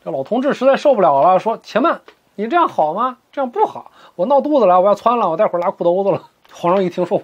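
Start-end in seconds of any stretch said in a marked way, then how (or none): 1.6-6.3 put-on high, pleading old man, rushing at the end; a panicky old codger begging to be let go; pleading old man whose voice climbs and speeds up; desperate old man.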